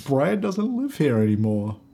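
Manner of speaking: a lightly put-on Australian hospitality worker, slow; middle class Australian.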